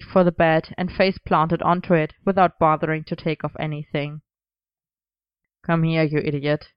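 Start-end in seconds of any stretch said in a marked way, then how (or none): 5.6-6.7 loving exasperation. Acted. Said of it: "he said fondly".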